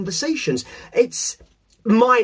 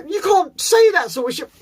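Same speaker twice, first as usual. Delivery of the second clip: mock disapproving voice; 9 semitones higher than usual. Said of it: "People go".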